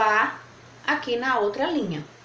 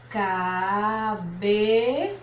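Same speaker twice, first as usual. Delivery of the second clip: "cabelos" very slowly, held on ca and be; split syllables; much slower than usual. Shown as a demonstration. Teacher writing at the line's end, "cabelos" drawn out syllable by syllable. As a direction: stretch "cabelos" as if writing it, pausing before los. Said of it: "Ela vai fazer a separação silábica".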